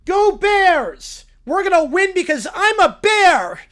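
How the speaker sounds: high, loud bear cheer; root hard for your team; excited cheer. Acted. Little Brown Bear cheering at the Super Bowl, high and loud.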